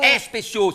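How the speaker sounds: "spéciaux" with an added eh in front; stubborn regional pronunciation. Shown as a demonstration. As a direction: say "spéciaux" as es-péciaux. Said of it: "c'est comme ça".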